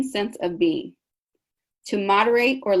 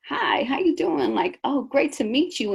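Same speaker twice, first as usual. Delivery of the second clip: friendly greeting; 6 semitones higher than usual. Shown as a demonstration. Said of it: "A person that's even toned".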